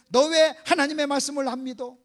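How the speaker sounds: loud scolding questions; acted rebuke. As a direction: demand an answer from the pupils. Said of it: "뭐라고 책망하냐면".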